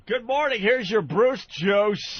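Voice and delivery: radio DJ voice. Retold or imitated. Imitating old morning radio DJ.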